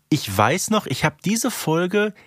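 ordinary talk, nothing marked

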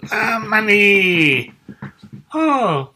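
high, slow, loud delighted cry; excited greeting. Acted. Friend greeting Manni with a loud, high delighted cry. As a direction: greet him with a big happy wail.

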